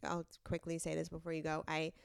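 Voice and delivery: rough, hungover voice; tired hungover croak. Real, not acted. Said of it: "Sorry for my voice, sisters. I'm hungover".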